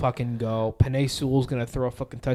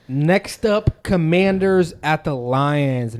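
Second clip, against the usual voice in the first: loud, slow game-show announcer; 4 semitones higher, 7 dB louder, much slower than usual. Acted. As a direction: call it like a TV host. Announcing next matchup.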